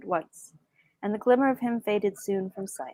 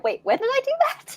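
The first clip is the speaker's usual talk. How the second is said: surprised. Retold or imitated. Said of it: "I was like".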